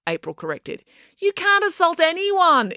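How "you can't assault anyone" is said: raised, higher and slowed in disbelief; exclaiming. A narrator's reading. Mister Lang to April about the assault, exclaiming. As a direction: blurt it out, scandalised. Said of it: "exclaimed Mister Lang".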